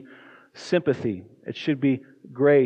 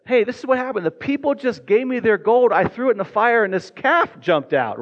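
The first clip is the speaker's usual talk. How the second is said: much higher, louder mock innocent excuse; Aaron's lame excuse; 8 semitones higher, 3 dB louder than usual. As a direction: play Aaron brushing it off, high and loud. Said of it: "He said".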